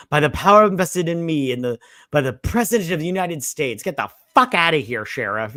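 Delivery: hammed-up official proclamation; mock-authoritative. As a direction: order them out with mock officialdom. Imitates Milton grandly ordering sheriff out.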